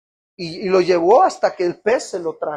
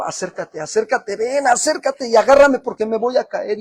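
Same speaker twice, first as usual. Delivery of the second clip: rising from a plea into a high, loud cry to be held; panicked plea for help; 6 semitones higher, 6 dB louder than usual. Retold or imitated. Injured player begging the teammate beside him, rising panicked plea. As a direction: beg the teammate to grab you before you fall. Retelling back pain on court.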